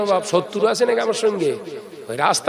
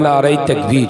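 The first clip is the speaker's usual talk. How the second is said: a raised cry of নারায়ে তাকবীর; louder takbir call; 4 semitones lower, 5 dB louder than usual. Real, not acted. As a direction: call it out more forcefully to the crowd. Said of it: "একটু ঝেড়ে মারেন".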